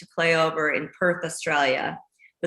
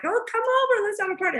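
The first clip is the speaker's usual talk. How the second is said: high, bubbly party invite; a lightly voiced party-loving Australian; partying Aussie friends; faster than usual. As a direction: chirp it like a carefree Aussie friend. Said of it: "They're like".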